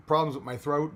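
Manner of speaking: normal talking voice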